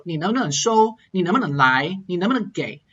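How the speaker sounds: 能不能 glided over quickly before the last verb; glided middle. Shown as a demonstration. Teacher drilling final tones, gliding quickly over 能不能. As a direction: skim 能不能, land on the final word's tone. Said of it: "It just glides over it really quickly".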